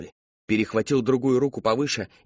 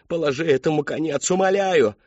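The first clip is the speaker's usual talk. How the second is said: higher, louder begging; pleading; 4 semitones higher, 3 dB louder than usual. Acted. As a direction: beg desperately. Character begs for an end.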